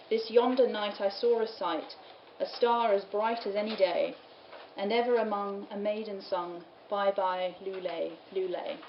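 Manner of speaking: put-on measured recital of old verse; poem reading. Lecturer reading a medieval lullaby carol to students, measured poem reading. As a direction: read the carol out line by line.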